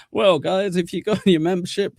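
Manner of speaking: high-pitched mock presenter patter; mock explainer. Streamer pretending to present a membership tutorial, mock explainer.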